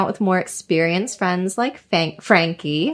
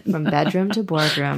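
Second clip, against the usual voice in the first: radio voice. Pretend. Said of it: "Do you like the radio voice I just did?".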